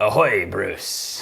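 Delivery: slow drawn-out pirate ahoy; pirate greeting. Acted. Pirate accent greeting chat viewer Bruce. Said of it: "hello in pirate".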